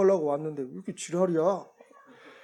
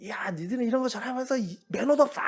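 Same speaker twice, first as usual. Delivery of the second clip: a hint of the fuming homeowner; scolding angry man; 7 semitones higher than usual. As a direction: imitate an irritated man telling them off. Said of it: "승질을 내는 거예요".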